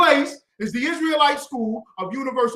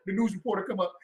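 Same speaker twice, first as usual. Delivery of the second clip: mock wailing; 3 semitones lower, 5 dB quieter, much faster than usual. Mimics wailing mother on news.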